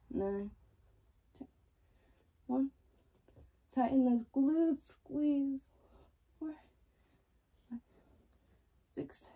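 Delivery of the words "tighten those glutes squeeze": coaching push. Real, not acted. Coach urging during glute squeezes.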